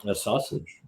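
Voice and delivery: talking with a mouthful; mouth full. Real, not acted. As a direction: say it through a mouthful of sausage. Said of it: "I like the way you say the word sausage".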